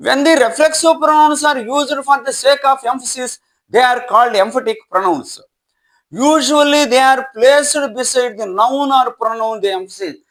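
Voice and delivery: slow, measured reading of a rule; dictation reading. Acted. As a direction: read it out slowly for students to write. Reads English rule slowly. (నెమ్మదిగా dictation లా చదవడం)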